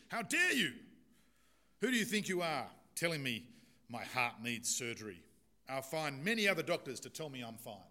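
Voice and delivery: loud furious tirade; menacing fury. Acted. Second patient furiously attacks the doctor, loud menacing fury. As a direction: rage at the doctor who insulted you. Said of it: "responded with a menacing fury".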